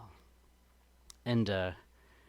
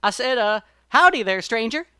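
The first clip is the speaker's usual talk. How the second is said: higher, louder folksy rabbit, a bit insistent; repeated greeting; 6 semitones higher, 8 dB louder than usual. A narrator's reading. Brer Rabbit greets the silent stranger again, insistent. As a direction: call it out again, pressing for an answer. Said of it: "and he says".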